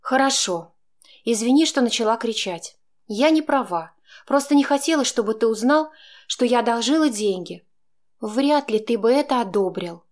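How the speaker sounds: Chaika, grudgingly apologising; reluctant apology. A narrator's reading. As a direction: apologise through gritted pride. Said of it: "нехотя произнесла".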